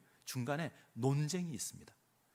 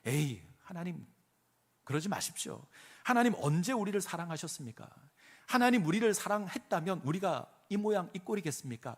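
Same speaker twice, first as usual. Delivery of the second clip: a light mock sneer at God; 비꼬는 말투로; sarcastic jeer. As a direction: voice the people's sarcasm, half-hearted. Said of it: "비꼬는 겁니다".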